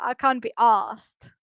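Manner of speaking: "asked" as ah-st without R, slow; English "can't be asked"; slow demo. Shown as a demonstration. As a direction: spell out "I can't be asked" slowly, R dropped. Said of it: "you don't really pronounce the R".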